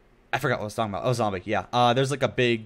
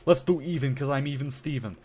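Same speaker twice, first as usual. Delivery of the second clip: put-on voice; 4 semitones higher than usual. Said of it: "Exactly how I talk, by the way".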